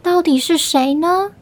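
put-on gentle storybook narration for little kids; reading to a toddler. A narrator's reading. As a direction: tell it like a bedtime story to a small child. Narrator reads the story to children. (给幼儿讲故事的语气)

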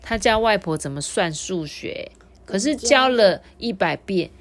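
lively picture-book reading; story narration for children. A narrator's reading. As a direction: tell it to small listeners with clear, lifted phrases.

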